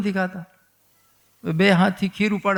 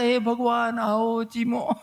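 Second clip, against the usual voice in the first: imitated prayer call; 4 semitones higher, slower than usual. Child imitates priest invoking God.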